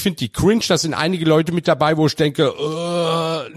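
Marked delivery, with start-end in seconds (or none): 2.5-3.5 lang gezogenes, tiefes Ääh; angewidertes Stöhnen. Acted. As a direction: angeekelt aufstöhnen, leicht gespielt. Angewidert von einigen Parteileuten. (angewiderter, gedehnter Laut)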